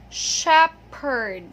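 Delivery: "shepherd" loud, in two parts, SHEP-perd; correct P pronunciation. Shown as a demonstration. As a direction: hit the P in "shepherd" firmly. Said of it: "one more time".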